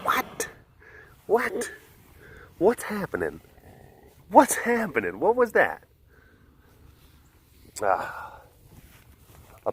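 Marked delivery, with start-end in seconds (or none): 0.0-5.8 put-on baby talk. Talking to animal, high voice.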